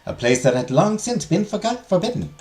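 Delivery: measured, lilting legend narration; storytelling teacher. Acted. Teacher tells students of the forbidden garden, storytelling. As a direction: tell the legend to a class with care.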